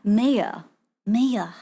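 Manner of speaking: "mayor" in an attempted French accent; learner's French-accented "mayor". Shown as a demonstration. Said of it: "mayor with French accent".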